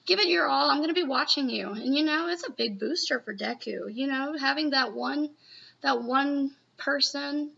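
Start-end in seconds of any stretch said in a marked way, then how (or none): 0.1-1.7 upbeat, slightly higher pep talk. Retold or imitated. Girl boosting Deku before he goes out, encouraging pep talk. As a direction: cheer them on with lifted pitch and push. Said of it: "gives a little bit of a pep talk".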